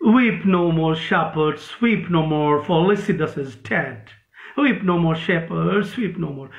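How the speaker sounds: slow, grieving line of verse; mournful recitation. Shown as a demonstration. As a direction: read it like a lament, drawn out. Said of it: "जैसे कोई रो रहा है".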